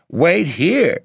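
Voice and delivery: sharp, high, loud outraged question; indignant cry. Acted. Madeline, insulted by her suitor, cries out in anger. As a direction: fling the words back at him in fury. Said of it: "she cried".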